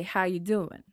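a hint of male Southern; Southern man's greeting. Shown as a demonstration. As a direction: show how Southern men say it. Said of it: "men, I think they say".

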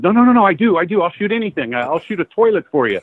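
retold begging to an editor. Job seeker begging the magazine editor to hire him, pleading. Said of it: "I'm, like, begging this woman".

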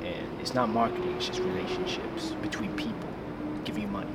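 hushed, confiding, out of the mouth's corner; Adam Dunlap, side of mouth. Retold or imitated. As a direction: talk sideways like sharing a secret. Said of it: "your best Adam Dunlap impression".

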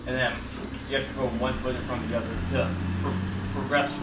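chewing a mint while talking; mouth full. Real, not acted. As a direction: talk around a Tic Tac in your mouth. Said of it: "Sorry, I'm chewing on a Tic Tac".

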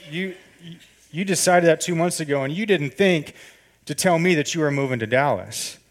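retelling the rush of confronting her all over again; heated hurt outburst. Retold or imitated. To his girlfriend, hurt she hid the move, heated. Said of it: "I'm going ninety miles an hour".

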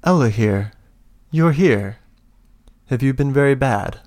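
menacing welcome from the cell; transformed elf greets her friend, a lightly voiced menace; Solvar's voice. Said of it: "Solvar says".

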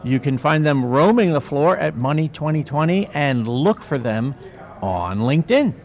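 booming hype announcer intro; fighting game announcer. Shown as a demonstration. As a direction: announce the guests like a ring announcer. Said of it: "now I get to put announcer voice on".

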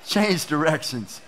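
slow, laughing "whoa"; half-laugh at the sudden turn; laughing surprise. Retold or imitated. Stunned by a rude stranger.

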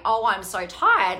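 slow, drawn-out tired sigh of a voice; weary inner voice. Retold or imitated. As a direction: let the inner voice drag, worn out. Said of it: "it sounded like the voice was saying".

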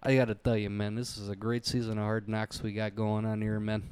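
quick sportscaster patter, lightly voiced; breezy coach pitching a guy; a hint of a hyped football analyst; John Gruden impression. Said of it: "John Gruden's always got the".

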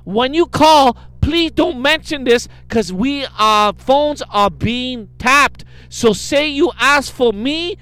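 mock broken English. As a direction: ham up the scammer's pleading. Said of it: "It's broken English, her email".

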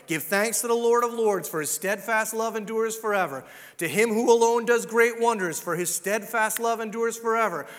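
loud, rhythmic psalm reading; preaching. Acted. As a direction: proclaim the psalm loudly. Reads psalm at full force.

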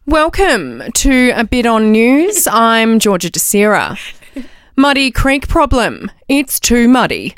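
slow, formal TV news anchor; newsreader voice. Acted. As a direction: read it like the evening news. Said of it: "the best newsreader voice going around".

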